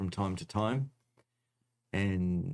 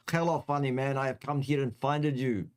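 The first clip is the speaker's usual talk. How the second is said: bad Russian accent; 5 semitones higher than usual. Doctor Mike the Russian physician threatens the funny man, mock Russian accent. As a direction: play a menacing Russian doctor, badly. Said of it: "That's my worstest, worstest accent ever".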